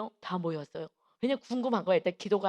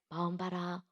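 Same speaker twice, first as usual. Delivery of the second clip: softer, subdued instruction; Holy Spirit's voice; 4 semitones lower, 6 dB quieter than usual. Retold or imitated. Holy Spirit prompting the teacher, quiet voice. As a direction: quote the inner prompting quietly. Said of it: "그 소리 딱 놓고서는".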